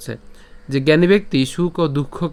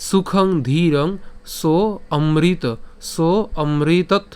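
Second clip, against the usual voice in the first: slow, phrase-by-phrase shloka recitation; measured Sanskrit verse reading; repeat recitation; much slower than usual. Shown as a demonstration. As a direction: recite deliberately with pauses for pupils. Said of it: "যদি আমি আবার বলি".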